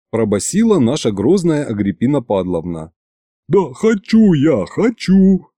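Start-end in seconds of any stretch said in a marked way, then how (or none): 3.5-5.5 high squeaky plea, slow; a hint of a squeaky frightened governor; squeak. A narrator's reading. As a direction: squeak it out like a scared little man. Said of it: "пискнул Иван".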